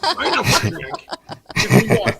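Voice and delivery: high, laughing denial; squeaky hammed-up protest; laughing mock protest. An American denying being a Yank, laughing.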